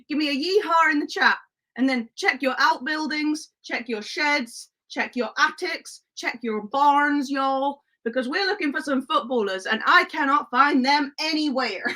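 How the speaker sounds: playful mock Western twang; cowboy accent. Streamer sends chat searching barns for footballers, mock cowboy accent. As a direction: put on a cowboy sheriff accent. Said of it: "no, not the accent".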